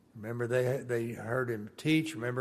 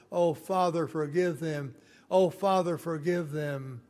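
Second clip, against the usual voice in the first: loud, high cry of pain and pleading; anguished cry; 5 semitones higher, 4 dB louder than usual. Retold or imitated. Jesus as the spikes go in, loud anguished plea. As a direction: cry out to the Father in agony. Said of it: "when they were putting the spikes in his wrist".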